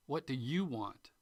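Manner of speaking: YOU stressed, falling at the end. Shown as a demonstration. Teacher showing listeners stress on YOU. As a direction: lean on the word you. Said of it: "when you change the emphasis".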